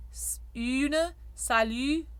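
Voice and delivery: une and salut with a rounded Y; French Y vowel. Shown as a demonstration. Coach modelling the Y vowel for singers. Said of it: "make your mixed vowel Y".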